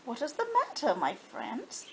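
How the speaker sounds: softly spoken gentle question; asked kindly. Acted. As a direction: kind little engine checking on friends. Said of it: "she asked kindly".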